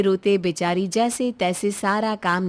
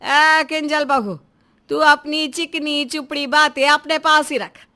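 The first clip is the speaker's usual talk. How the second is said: sharp rebuke; 3 semitones higher than usual. Acted. Mother-in-law cuts off daughter-in-law.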